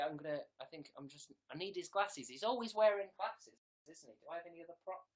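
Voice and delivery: ordinary talk, nothing marked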